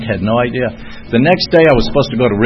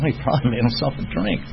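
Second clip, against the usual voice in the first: softer, unimpressed inner voice; understated aside, as if privately guessing; thinking to himself; 8 dB quieter than usual. Retold or imitated. Recovering drinker privately guessing what the patient did, understated. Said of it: "I'm thinking to myself".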